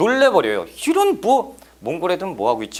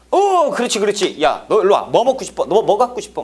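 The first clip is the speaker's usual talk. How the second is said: high, eager and rewarding; delighted praise; 4 semitones higher than usual. Acted. Mongol officer rewarding the witness who blamed Goryeo, eager gushing. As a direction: gush over the witness who gives the wanted answer.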